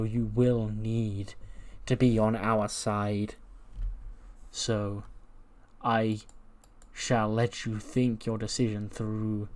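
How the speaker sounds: slow, deliberate persuasion; measured villain talking someone round; ominous cult leader. Acted. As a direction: stretch the words and leave weighty pauses. Plays Gacy persuading Bivens.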